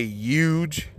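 "huge" said "yooj"; H dropped. Retold or imitated. Asking if it's a trend, "huge" said without the H. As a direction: say "huge" with no H, drawn out. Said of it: "Is it fucking cool to say".

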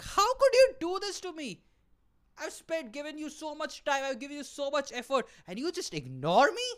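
high-pitched hammed-up betrayed wail; imitating a jilted lover losing it; mock heartbroken screaming. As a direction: plead in wounded outrage, very high. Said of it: "You're screaming at her".

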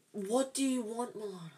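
high, whiny demand to a sibling; real exasperation. Real, not acted. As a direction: ask it fed up with the interruption. Irritated at sister interrupting recording.

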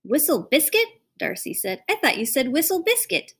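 put-on a small girl anxiously asking her father; little girl voice.

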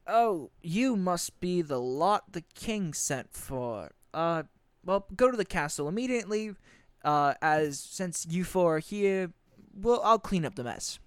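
a hint of a tired officer; weary captain. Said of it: "sighs and goes".

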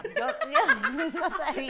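trying not to laugh. Real, not acted. Laughing at own story.

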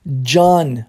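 "John" with the O as an open ah, low; pronunciation of John. Shown as a demonstration. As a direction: model "John" as "Jahn". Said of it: "Olha como é que pronuncia".

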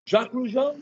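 calling the name out high, like an attendant scanning the cabin; flight attendant calling. Retold or imitated.

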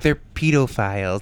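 "pedophiles" said PEE-doe-files; long-e pedophiles. Retold or imitated. Mocking people who say pedo, long-e pronunciation. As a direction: say "pedophiles" with a long ee in the first syllable. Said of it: "Don't you hate when people say pedo".

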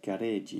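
"Garage" echoed as katakana gareeji; Japanese pronunciation. Shown as a demonstration. Teacher repeats the Japanese word, "Garage" as gareeji. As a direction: say "Garage" with a long e, ga-ray-ji. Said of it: "what's the Japanese word?".

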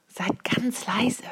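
slow, hushed whisper. A narrator's reading. Jiri hushing the others round the well, whispered. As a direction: whisper it softly, drawing out each word. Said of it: "flüsterte Jiri".

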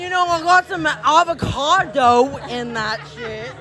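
light mock Alabama accent ordering food; lazily drawled Alabama voice, understated. Shown as a demonstration. Mimicking a Southern customer listing nacho meats, light Alabama accent. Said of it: "can I do an Alabama accent about the, the nachos".

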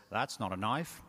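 put-on light Australian accent on a film quote; Aussie accent. Crocodile Dundee answering his worried girlfriend, light Aussie accent. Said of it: "It's my Aussie accent".

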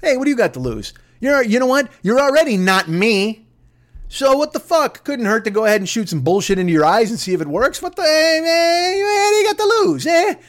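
rising into a high mocking whine; Trump impression. Comic mocking Trump's careless pitch, climbing high. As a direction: toss it off like nothing matters. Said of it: "he says shit like".

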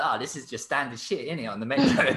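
mock London kid.

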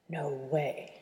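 говорит с пастой во рту; mouth full. Acted. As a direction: say it through toothpaste. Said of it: "through a mouthful of toothpaste".

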